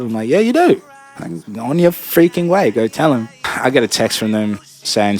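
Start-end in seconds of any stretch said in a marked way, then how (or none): 0.3-3.3 much higher, incredulous retort; indignant comeback. Retold or imitated. Worker sending caller to the boss, indignant. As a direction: throw it back at them, pitched up. Snapping back at work caller.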